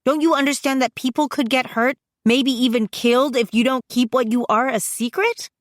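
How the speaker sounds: high-pitched exasperated argument; heated scolding. A narrator's reading. Sister warning her reckless brother, heated scolding. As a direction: scold him urgently, pitch riding high.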